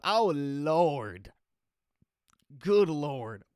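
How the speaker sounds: loud, anguished exclaim at the photo; loud mock despair at the ugly ID photo; dismayed groan. Real, not acted. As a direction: cry out in horror at your own picture. Reacting to own bad photo.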